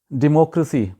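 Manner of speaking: "ڈیموکریسی" as di-MOK-ruh-see; correct pronunciation. Shown as a demonstration. Teacher introduces the word democracy, correct pronunciation. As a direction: reduce "ڈیموکریسی" to short "ruh" in the third syllable. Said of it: "یہ صحیح تلفظ ہے".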